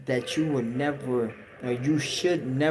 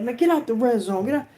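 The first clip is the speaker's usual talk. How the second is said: officers ordering; 11 semitones higher, 5 dB louder, faster than usual. Retold or imitated. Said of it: "And they were like".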